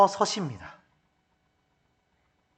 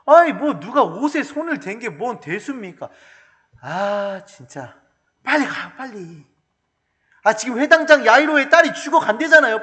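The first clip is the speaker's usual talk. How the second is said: higher, louder impatient urging; impatient disciples; 5 semitones higher, 5 dB louder than usual. Retold or imitated. Preacher acting disciples urging Jesus to hurry, impatient. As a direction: hurry him along, exasperated. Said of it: "제자들이 뭐라고 얘기합니까".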